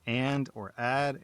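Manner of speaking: slow Southern-belle A in "and" and "add". Shown as a demonstration. Narrator showing her Southern A on "and" and "add". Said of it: "sounds like a little old Southern belle".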